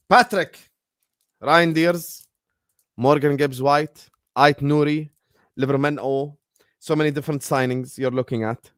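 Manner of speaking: put-on light Geordie accent on the names. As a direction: list the names with a Geordie lilt. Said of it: "I said that in a Geordie accent as well".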